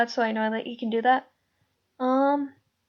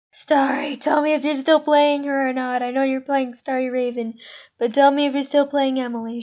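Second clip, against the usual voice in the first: louder, insistent direct appeal; calling someone out; 5 dB louder than usual. Real, not acted. Host presses a voice actor about a role, calling out. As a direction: call out to a voice actor, pressing for an answer.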